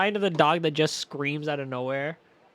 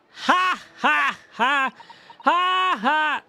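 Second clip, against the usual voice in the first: loud, much higher staccato "ha, ha"; hammed-up laugh; 10 semitones higher, 8 dB louder, much slower than usual. Streamer laughs at the game's pun, hammed-up loud laugh. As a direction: bark out a theatrical laugh.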